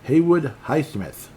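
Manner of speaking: mock-grand name read. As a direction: announce the name with relish. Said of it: "Rolls right off your tongue".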